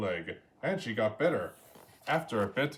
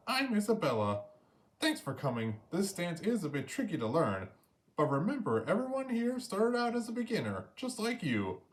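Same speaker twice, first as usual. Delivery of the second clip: higher, encouraging teacher voice; dance teacher voice; 6 semitones higher than usual. A narrator's reading. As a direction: cheer on a nervous beginner. Teacher Isabella speaks.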